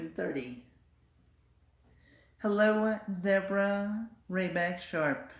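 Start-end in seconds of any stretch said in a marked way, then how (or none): 2.4-5.3 high, louder, bright greeting; imitating a woman's sample recording; recorded woman. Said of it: "the women that were saying these sentences".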